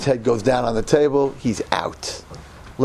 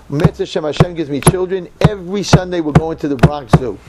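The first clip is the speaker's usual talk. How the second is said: louder, resolute promise; firm vow; 3 semitones higher, 5 dB louder than usual. Retold or imitated. Newlywed promising himself zoo trips, loud and firm. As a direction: declare it like a solemn pledge. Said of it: "I said to myself".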